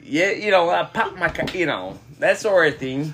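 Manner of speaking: put-on a light Minnesota accent, rambling about hockey and pop; lightly voiced Midwest hockey guy; easygoing Minnesota accent telling a story. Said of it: "give me a good Yankee accent".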